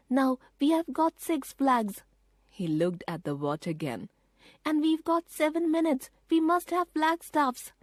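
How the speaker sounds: put-on a boy realising the danger; boy Peter, urgent. A narrator's reading. Peter warning his sisters about the train, urgent.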